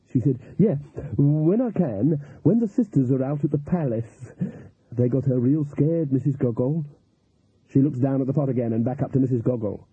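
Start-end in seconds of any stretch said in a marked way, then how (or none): 0.6-6.8 cook confiding. Acted. Cook telling the voodoo woman about the girl, confiding.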